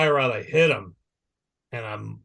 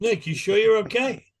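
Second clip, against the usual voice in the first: much higher, singsong fake concern; mock taunting; 9 semitones higher than usual. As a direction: rub it in with a sweet teasing tone. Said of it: "then he starts taunting me".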